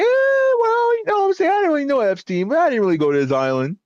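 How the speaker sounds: high, hammed-up evasive whine; a fake-innocent rich guy dodging the question; mocking rich people. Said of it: "all the rich people are like".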